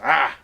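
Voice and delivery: I said as a loud drawled Ah; drawled Western I. Shown as a demonstration. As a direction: lean hard on I, stretch it to Ah. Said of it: "You gotta really emphasize it".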